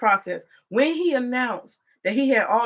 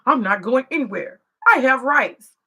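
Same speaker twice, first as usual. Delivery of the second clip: mock defiant immigrant; 3 semitones higher, 6 dB louder than usual. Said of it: "these arrogant motherfuckers".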